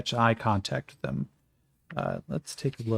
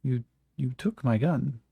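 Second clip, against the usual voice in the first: put-on French accent; 2 semitones higher, slower than usual. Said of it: "Jean-Francois goes".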